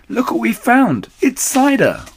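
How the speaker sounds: very high, loud little fox voice; excited cry. A narrator's reading. Smallest fox showing Dad the cider, excited high cry. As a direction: squeal the find with delight. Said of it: "he cried".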